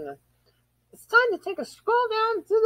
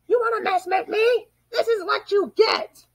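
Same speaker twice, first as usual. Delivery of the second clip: taunting shout; 2 semitones higher, 4 dB louder than usual. Acted. Villain fighting, taunting.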